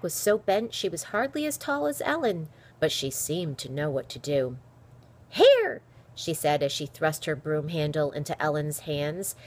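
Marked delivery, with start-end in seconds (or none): 5.3-5.8 high, loud, brisk order; sharp raised voice; urgent call. A narrator's reading. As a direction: call it out as a command. Old woman urging Ellen on.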